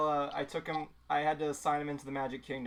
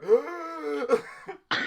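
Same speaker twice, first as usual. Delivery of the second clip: high mock scream for air; imitated high, airy wail; imitated kids screaming; 11 semitones higher, 3 dB louder than usual. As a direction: wail like a kid gasping for air. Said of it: "just the kids screaming for air".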